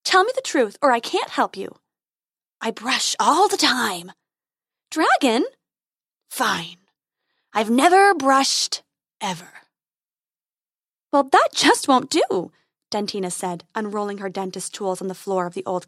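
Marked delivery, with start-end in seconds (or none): 0.0-1.8 fairy voice. Acted. 2.6-4.1 growling dragon guarding treasure. Acted. 4.9-5.4 fairy voice. Acted. Fairy scolding. 6.3-9.6 growling dragon guarding treasure. Acted. 11.1-12.5 fairy voice. Acted.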